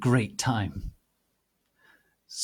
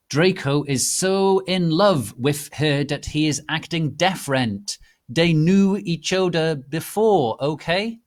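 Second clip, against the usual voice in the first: whiny author rant; 5 semitones higher, 5 dB louder than usual. Acted. Teen author scolding the flamers, whiny and indignant.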